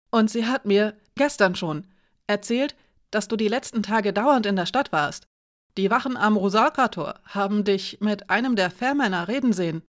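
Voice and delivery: lightly voiced boy passing on gossip; a hint of an eager lad reporting; Edik, unfazed teenager. Edik reports Nadja's gossip to Alina, lightly voiced unfazed boy.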